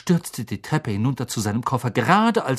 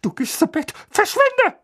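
angry order. A narrator's reading. Vernon orders Harry off.

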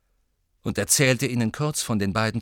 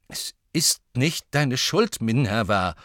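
slow, deliberate reassurance; firm, decided; 3 semitones higher, 3 dB louder, slower than usual. Acted. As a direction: weigh each word firmly. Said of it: "sagte Lupin entschieden".

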